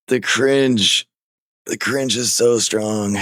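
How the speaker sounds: drawn-out, high-pitched mock alarm; cringing. Host reacting to an embarrassing troll caller, cringing. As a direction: stretch it out in pained embarrassment.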